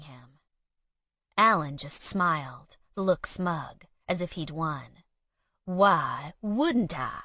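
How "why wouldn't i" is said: slow taunt. Acted. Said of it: "he repeated".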